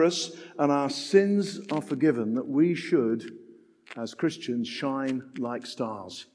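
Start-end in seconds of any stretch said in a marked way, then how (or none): 4.0-6.3 softer and lower, very slow on shine like stars; hushed emphasis. Real, not acted. Preacher urging Christians, hushed and drawn out. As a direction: sink the voice and stretch it out.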